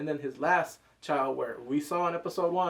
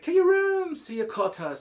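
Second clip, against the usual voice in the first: commanding order; 13 semitones higher, 7 dB louder than usual. Retold or imitated. King orders the brawling princes out.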